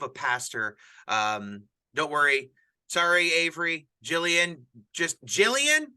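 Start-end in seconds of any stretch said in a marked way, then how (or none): 4.9-5.9 loud, high playful telling-off; mock scolding. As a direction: scold her in jest, half laughing. Teasing a co-host on camera.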